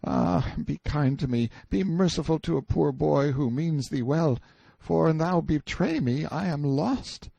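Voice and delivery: put-on high, cowering boy's voice; fearful confiding. A narrator's reading. Boy tells prisoner of forbidden things, fearful. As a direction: confide awful news in dread, high but voiced. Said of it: "told me his fearful news in a whisper".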